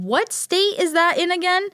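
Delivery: a hammed-up clueless question. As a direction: play it innocently lost. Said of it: "I made myself look so stupid".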